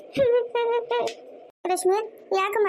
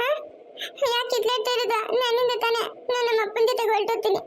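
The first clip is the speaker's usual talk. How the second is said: put-on higher little girl's voice, close to tears; child begging grandpa to stop the fighting, tearful; crying child; 4 semitones higher than usual. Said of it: "ಯಾಕೆ ಅಳ್ತಾ ಇರೋದು ಇವಾಗ ನೀನು".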